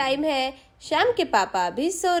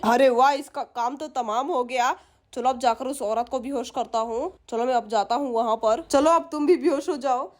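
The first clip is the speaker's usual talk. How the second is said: scheming thief musing to himself, lightly acted; a touch of a greedy burglar plotting aloud; lightly voiced thief; 4 semitones lower than usual.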